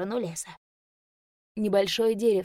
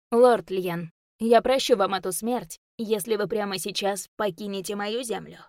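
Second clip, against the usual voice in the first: loud, stern ultimatum; stern commanding warning; 5 dB louder than usual. Acted. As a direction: command him to leave. Elf lord warns demon.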